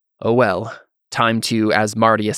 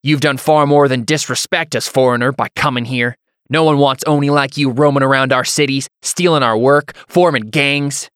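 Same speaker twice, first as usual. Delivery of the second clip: higher, louder accusing tirade; angry hothead; 4 semitones higher, 5 dB louder than usual. Acted. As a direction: rail at the foreigner, stretching the last words.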